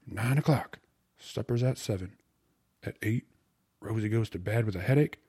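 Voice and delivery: lively, lightly acted plotter; eager slangy suitor. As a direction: rattle off the plan with keen confidence. Voices Chunk laying out plan.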